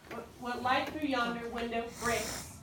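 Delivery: slow, with beats on "light", "yon", "win", "breaks"; emphasized syllables. Shown as a demonstration. Teacher repeating the line for students, slow iambic emphasis. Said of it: "these things are kind of emphasized".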